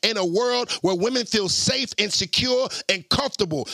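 preacher voice. Acted. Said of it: "I'm talking into my preacher voice".

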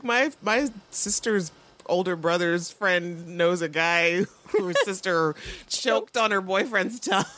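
gossiping. Retold or imitated. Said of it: "And she's like".

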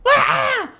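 high, loud shriek; imitated scream of sudden waking; startled scream. Wife waking in the hammock at night, screaming.

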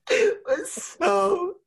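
lachend uitgesproken, stem schiet omhoog in de lach; laughing. Real, not acted. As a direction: giggle through it, high and slow. Laughing at emotional assembly story.

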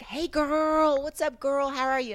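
high-pitched Texas greeting; drawn-out friendly Texan hello; Texan woman. Retold or imitated. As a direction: imitate a Texas gal's hello. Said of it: "she was from Texas".

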